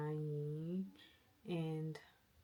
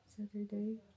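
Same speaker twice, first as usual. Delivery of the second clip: Saturday? rising like a real question, a bit higher; 4 semitones higher than usual. Real, not acted. Double-checking what day tomorrow is, questioning rise.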